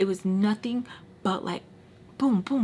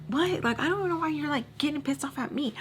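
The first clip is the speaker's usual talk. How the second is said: retold surprise; 6 semitones higher than usual. Confused reaction to Joe's anger.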